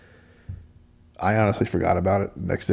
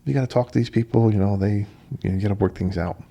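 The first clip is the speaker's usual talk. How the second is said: emphatic protest; 5 semitones higher, 3 dB louder than usual. Retold or imitated. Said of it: "And I'm like".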